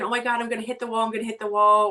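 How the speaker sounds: quick, rushed fretting; hurried, lightly panicked inner voice; mock panic. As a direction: race through it like a worried driver. Imagined driver panicking about the wall.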